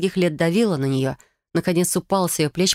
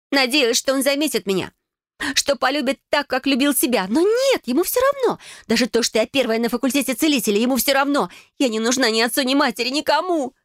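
high, tearful outburst; anguished sister; 9 semitones higher than usual. A narrator's reading. Sister confessing father never cared for her, anguished. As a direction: pour out the old hurt, voice pitched up. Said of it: "Её голос становился всё тише".

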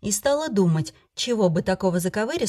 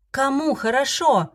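higher, slower, offended cry; hurt shout; 6 semitones higher, slower than usual. Acted. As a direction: cry out, wounded. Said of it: "закричала обиженно". (обиженный крик, выше и медленнее)

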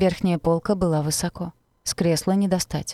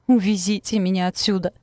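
moaned; 3 semitones higher than usual. Acted. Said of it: "простонала я".

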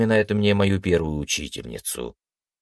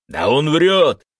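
higher, louder shout; loud accusation; 7 semitones higher, 6 dB louder, slower than usual. A narrator's reading. Don shouting down the captive, a loud accusing yell. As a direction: yell it out over everyone.

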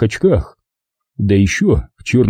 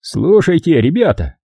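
patient explanation; 7 semitones higher than usual. Acted. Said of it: "начал терпеливо объяснять".

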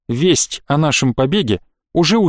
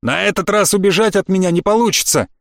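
mocking elf; 4 semitones higher than usual. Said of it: "послышался насмешливый голос эльфа".

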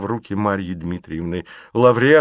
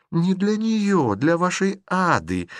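much higher, slow, emphatic echo; shrill insistence; 10 semitones higher, slower than usual. Acted. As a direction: push it theatrically. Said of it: "повторила". (выше, с нажимом, театрально)

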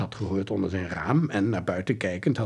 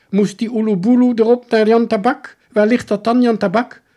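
sly question; 11 semitones higher, 10 dB louder than usual. Acted. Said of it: "vroeg hij geslepen".

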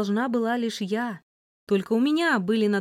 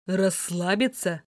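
angry; 2 semitones lower than usual. Acted. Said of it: "зло произнёс Андрей".

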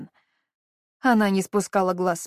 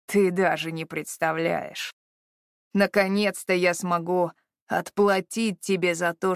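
deep chesty voice. Acted. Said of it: "своим глубоким грудным голосом".

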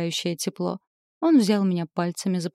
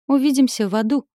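higher, louder villain's taunt; mock-evil farewell, raised and loud; villainous gloat; 6 semitones higher, 6 dB louder than usual. A narrator's reading. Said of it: "злодейски захохотал рыцарь ада".

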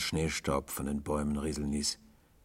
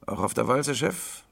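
put-on higher-pitched hoarse boy's question; 9 semitones higher, 5 dB louder than usual. A narrator's reading. Boy hailing a passing tramp, hoarse and high. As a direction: ask it hoarsely, pitch lifted. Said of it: "fragte der Junge heiser".

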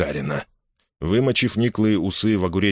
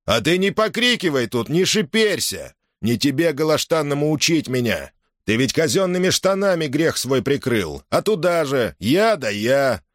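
higher, indignant telling-off; angry retort; 6 semitones higher than usual. A narrator's reading. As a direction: put the upstart in his place. Drunk Innokenty snaps at Nikita.

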